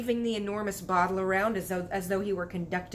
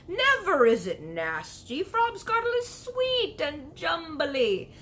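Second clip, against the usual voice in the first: proud insistence; 9 semitones higher, 5 dB louder, slower than usual. Acted. Giant defends his drink.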